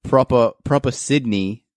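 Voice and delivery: lightly put-on Sydney Australian accent; proper Sydney accent. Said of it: "when you're, like".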